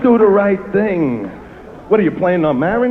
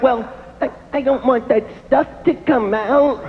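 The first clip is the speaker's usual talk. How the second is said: put-on squeamish girlfriend; 3 semitones higher than usual. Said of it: "They're like".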